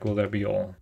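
put-on a light British officer accent; a hint of a British commanding officer. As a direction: play the Admiral with a mild British accent. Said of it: "He's British".

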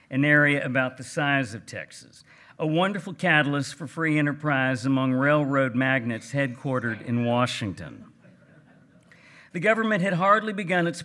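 a lightly put-on Texas gentleman accent; J. Frank Dobie's Texas voice. Reading Dobie's essay aloud to the audience, in a light Texas gentleman accent. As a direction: read it like a genteel old Texan rancher with a light Texas accent. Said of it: "in my best Texas gentleman voice".

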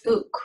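"Ook" opened with a popped T; "Ook" as t'ook, the T an ejective click of air. Shown as a demonstration. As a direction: pop a T hard before "Ook". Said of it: "So pop that T up".

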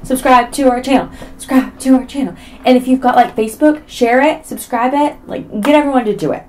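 high, loud, insistent pleading; playful begging. Pretend. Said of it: "I beg ya".

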